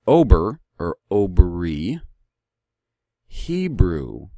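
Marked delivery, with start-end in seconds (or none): 0.1-2.0 "Ober or Obri" said distinctly as the proper name; corrected pronunciation. Shown as a demonstration. Speaker correcting how Hebrew is named, "Ober or Obri" pronounced deliberately. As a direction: sound out "Ober or Obri" carefully, each stressed. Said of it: "even the pronunciation of it, which it should be".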